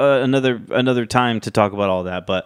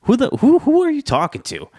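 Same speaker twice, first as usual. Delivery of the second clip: high-pitched indignant retort, stumbling on the first words; snapping back; 14 semitones higher than usual. Retold or imitated. Roman challenging Jimmy for questioning him, snapping back. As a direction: imitate an affronted snap, pitch leaping up. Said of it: "Roman snaps back at Jimmy".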